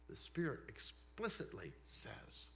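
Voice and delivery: breathy whisper of the verse; hushed, almost secret repeat; whispered emphasis. Shown as a demonstration. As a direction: lean in and whisper it. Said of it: "whispered repeat of scripture".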